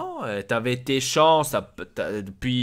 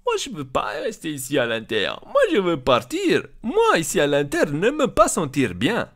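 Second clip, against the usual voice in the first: higher, lightly mimicked whining player; mock the player's halting broken French; player's complaint, imitated; 4 semitones higher than usual. Boss quoting João Mario's wish to leave, mocking imitation. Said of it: "tu avais dit".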